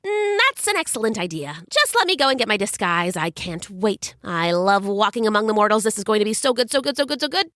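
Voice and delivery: excited Hermes. Acted. Hermes gleeful about disguise.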